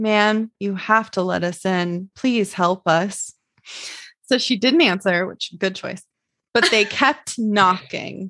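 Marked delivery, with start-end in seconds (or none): 0.0-3.3 put-on creepy girl voice, much slower. Telling a scary story, voicing the older girl at the front door in a put-on creepy voice. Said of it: "the same creepy voice from the older girl says".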